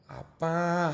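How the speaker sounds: softly drawn-out, nasal wheedling; cutesy nasal whine. Retold or imitated. Uncle shows niece how to call dad, cutesy nasal whine. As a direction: imitate a little girl coaxing her dad. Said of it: "콧소리 한번 내봐".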